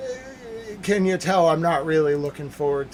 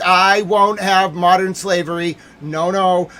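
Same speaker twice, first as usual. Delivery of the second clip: angry shout; 3 semitones higher, 7 dB louder than usual. Real, not acted. Ranting streamer shouting.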